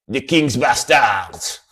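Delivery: a band name slow and shouted; shouted name. Shown as a demonstration. Hyping the band name to viewers, slow shout. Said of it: "repeating band name".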